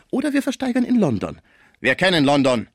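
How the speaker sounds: very high-pitched counter-threat; threatening Frisier. A narrator's reading. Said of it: "Man trennte sich unter Drohungen". (drohend, mit sehr hoher Stimme)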